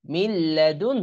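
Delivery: "মিল্লাদুন" with a faint h after the n; light final h. Shown as a demonstration. Teacher showing the h is light, at the end of "মিল্লাদুন". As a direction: let a slight h close "মিল্লাদুন". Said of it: "এই হাটা হালকা একটু উচ্চারণ হবে".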